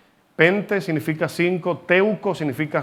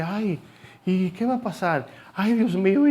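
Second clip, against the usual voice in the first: higher, fretful mock panic, sighing "Ay"; 4 semitones higher than usual. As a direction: play someone losing their nerve at the news. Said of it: "hay un impacto que uno dice". (pánico fingido, más agudo y angustiado)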